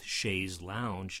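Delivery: "chaise lounge" said as shayz lounge; accepted variant pronunciation. Shown as a demonstration. Allowing learners the dictionary variant, lounge pronunciation. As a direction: say "lounge" as in the English word. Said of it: "You can probably get away with".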